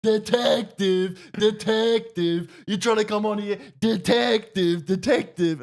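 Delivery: high, slow repeated yell; drawn-out shouting chant; mock shouting. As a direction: friend yelling at the inspector over and over. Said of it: "He just kept shouting".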